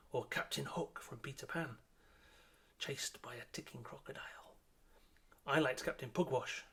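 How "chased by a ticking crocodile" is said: whisper. Acted. Spooky Peter Pan aside.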